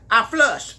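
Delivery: very high, flustered squeal; hammed-up girlish fluster; mock swoon. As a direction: go sky-high and draw out the swoon. Mock swooning at his intense gaze.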